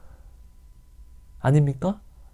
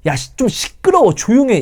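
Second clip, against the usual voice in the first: higher, sharp mock scolding; hushing crowd; 10 semitones higher, 4 dB louder than usual. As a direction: tell the beggar to shut up. Crowd hushing the blind man.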